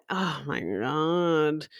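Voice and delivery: drawn-out Irish-accented exclamation. Shown as a demonstration. Fan imitating Derry Girls, slow Irish accent. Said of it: "it's a thick accent".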